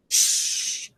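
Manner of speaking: a quick voiceless shush; sharp hiss. A narrator's reading. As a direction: hush him fast, all breath. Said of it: "hissed Professor McGonagall".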